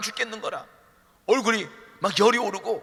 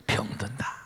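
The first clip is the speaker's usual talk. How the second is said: muttered answer; 10 semitones lower, 8 dB quieter, slower than usual. Retold or imitated. Mimicking a congregant's answer.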